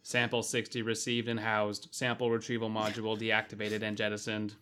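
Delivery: even, mechanical robot voice. Acted. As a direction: speak like a spaceship computer. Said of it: "you sound like the robot in Star Fox".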